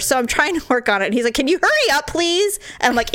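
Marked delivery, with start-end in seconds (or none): 1.3-2.6 raised-pitch mock pleading of a patient; impatient imitation. Husband being bandaged rushes his wife, impatient imitation. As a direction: hurry them along, pitched up.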